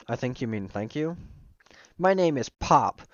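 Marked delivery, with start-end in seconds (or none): 2.0-3.0 lightly voiced dopey kid, higher and louder; slow, loud, simple-minded introduction; goofy kid voice. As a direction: announce it slowly like a proud goof. Goofy character introduces himself.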